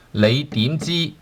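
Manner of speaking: 你點知 said slowly, each tone drawn out; slow teacher model of 你點知; slow model phrase. Shown as a demonstration. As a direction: spell out 你點知 slowly for the learner. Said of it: "Fourth tone, second tone".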